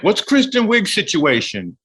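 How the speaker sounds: high, slow gossipy fan; pry like a nosy stranger; a fan asking about a castmate, high and slow. Retold or imitated. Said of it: "it was like".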